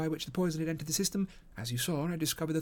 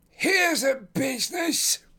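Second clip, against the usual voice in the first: thick, husky, muffled, raised exclamation; 9 semitones higher, 8 dB louder than usual. A man enters a room followed by a uniformed inspector; muffled, husky cry. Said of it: "he cried in a muffled, husky voice".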